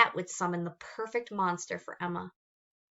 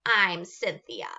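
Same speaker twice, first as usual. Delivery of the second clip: rasping monster; 5 dB louder, slower than usual. Acted.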